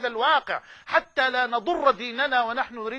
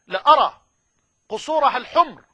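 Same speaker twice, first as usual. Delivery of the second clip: ringing proclamation; 7 dB louder than usual. Acted. Quoting the Prophet's vision.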